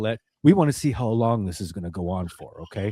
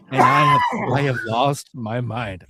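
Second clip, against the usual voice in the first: laughing hard; 4 dB louder, slower than usual. Real, not acted. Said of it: "I am laughing so incredibly hard".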